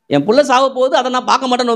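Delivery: Hagar's despair. Retold or imitated. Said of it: "என்ன யோசிக்கிறாங்க அவங்க?".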